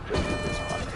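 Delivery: a hint of a Valley Girl. Shown as a demonstration. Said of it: "Valley Girl voice".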